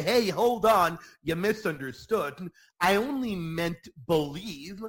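a hint of a breezy corrector; mock correcting voice. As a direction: play a casual teacher brushing it off. Mock Jesus correcting misunderstanding.

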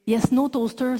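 a light, hammed-up English accent; a light mock of clumsy English for the laugh. Mocking her poor English.

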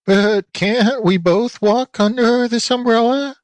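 high, slow bleating question; goat lady bleating. A narrator's reading. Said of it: "bleated Aunt Letty".

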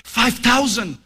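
put-on a little boy pleading to be heard; excited child voice. Son Junior insists again.

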